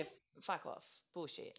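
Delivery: soft unvoiced dismissive scoff; whispered scoff. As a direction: breathe it out as a scornful aside. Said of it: "And I'm like".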